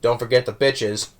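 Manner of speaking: imitated deadpan throwaway; nonchalantly casual. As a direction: drop the line casually, completely straight. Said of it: "so nonchalantly casual".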